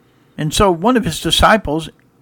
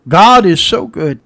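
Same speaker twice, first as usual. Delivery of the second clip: louder, slower, proclaiming God is so good; emphatic praise; 3 semitones higher, 7 dB louder, slower than usual. Shown as a demonstration. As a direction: lift it up and proclaim it. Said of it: "I'm saying".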